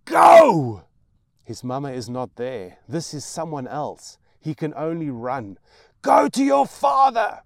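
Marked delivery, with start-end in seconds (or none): 0.0-0.8 high, loud mad scream. Acted. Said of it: "she screams at him". 6.0-7.4 high, loud mad scream. Acted. Mad mother screams son away.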